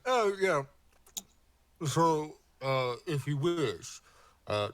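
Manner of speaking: lightly voiced friendly merchant; a touch of an eager shopkeeper; NPC voice.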